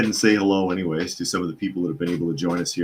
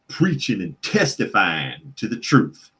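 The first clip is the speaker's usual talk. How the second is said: lightly hammed Southern revival accent; a touch of mock Southern testifying; mock Southern preacher. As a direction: slip into a playful Southern preacher cadence. Mocking candidate's put-on Southern speech.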